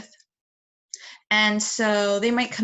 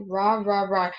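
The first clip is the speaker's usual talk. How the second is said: tiger roar. Shown as a demonstration. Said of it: "Tigers kinda make that sound too".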